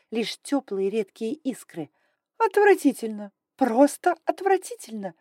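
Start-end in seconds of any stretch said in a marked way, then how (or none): 2.4-3.3 higher, louder disgusted hiss. Acted. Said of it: "прошипела драконица". 3.6-5.1 higher, louder, stressing просто; hissed disgust. Acted. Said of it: "прошипела драконица".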